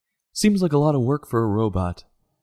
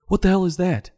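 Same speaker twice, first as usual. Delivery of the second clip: incredulous; 8 semitones higher than usual. Real, not acted. Indignant at late safety advice.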